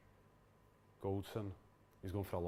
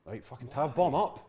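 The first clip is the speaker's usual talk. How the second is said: yelling from the sidelines; 2 semitones higher than usual. Real, not acted. Urging player forward while watching.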